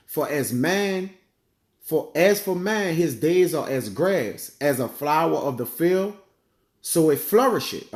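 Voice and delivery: slow, measured King James reading; scripture reading. Acted. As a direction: lay each phrase down slowly. Reads scripture aloud.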